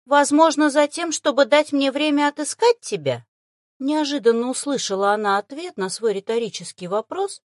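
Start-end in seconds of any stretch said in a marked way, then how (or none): 0.0-3.2 high, loud, patronizing creature voice; grumpy and condescending. A narrator's reading. Familiar spirit beast answers her rhetorical question, grumpy and condescending. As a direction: answer as if stooping to explain, grumbling. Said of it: "ворчливо-снисходительным голосом".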